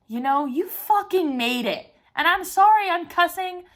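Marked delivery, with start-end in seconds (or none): 0.4-1.9 firm stress driving through "you fucking made it"; emphatic. Real, not acted. Repeating her graduation triumph to herself, "you fucking made it" said emphatically. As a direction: punch "fucking made it" with conviction. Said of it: "needs that kind of emphasis".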